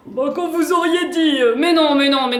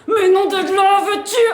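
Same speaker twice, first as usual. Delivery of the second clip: louder, higher oath at her; a husband's furious outburst; exasperated shout; 4 semitones higher, 3 dB louder than usual. Acted. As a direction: blow up at her to go. Husband losing patience.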